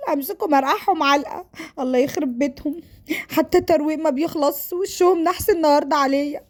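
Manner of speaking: put-on mildly exasperated young woman's monologue; lightly acted grumbling about an unwanted suitor; fed-up bride-to-be. Voices fed-up Sara grumbling.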